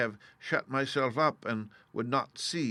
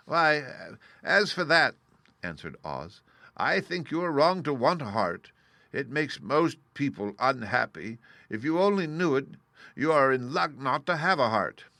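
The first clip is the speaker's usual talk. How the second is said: Oz voiced; 4 semitones higher, 4 dB louder than usual.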